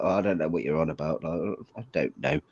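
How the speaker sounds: mock English people. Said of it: "English people will be like".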